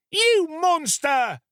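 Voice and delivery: high, loud and slow, recoiling in horror; a boy flinging the word at a killer; horrified outcry. Acted. Boy cries out at the murderer in horror.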